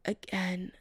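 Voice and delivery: rough, hoarse and soft. Acted. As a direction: rasp it out hoarsely. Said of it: "Chris says in a hoarse voice".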